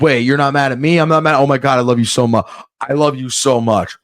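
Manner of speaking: lightly acted gush of mutual reassurance; gushing relief. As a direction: tumble out relieved declarations of love. Acted reunion with anxious dog.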